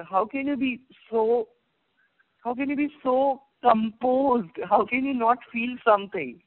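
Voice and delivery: irritated. Retold or imitated. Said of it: "he really gets very irritated".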